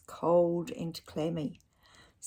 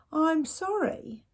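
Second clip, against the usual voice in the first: slow, hushed sorry; soft apology; 10 semitones higher, 4 dB louder, slower than usual. Acted. Dad apologises softly to his disappointed son. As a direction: gently say sorry. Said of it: "said Dad".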